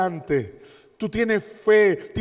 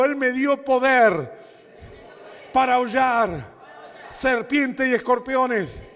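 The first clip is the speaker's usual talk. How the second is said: preaching shout; 4 semitones higher, slower than usual. Real, not acted. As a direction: shout it out for them to echo back. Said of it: "Decí conmigo".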